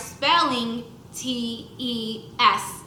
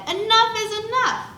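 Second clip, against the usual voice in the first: firm mom; 8 semitones higher, 4 dB louder than usual. A narrator's reading. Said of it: "Then my mom said".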